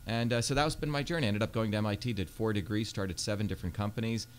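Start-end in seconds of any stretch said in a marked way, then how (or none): 1.2-4.3 rattled off fast. Real, not acted. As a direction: run through the list quickly. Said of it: "you said that pretty fast".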